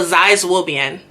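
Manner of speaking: Zai zuobian said fast and mumbled; hurried Mandarin phrase; quick mumbled Mandarin. Shown as a demonstration. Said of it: "if I mumble a little bit, speed up my speech".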